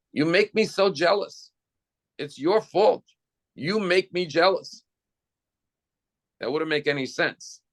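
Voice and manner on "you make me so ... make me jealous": higher, whining blame, lightly played; a hint of a petulant accuser; mock whiny complaint. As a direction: pout it out like a sulky child blaming someone. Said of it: "you say".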